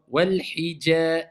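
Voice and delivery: WAL HIJA with thin, light vowels; thinned muraqqaqa. Shown as a demonstration. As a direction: keep the JA of Wal hija slender and drawn out.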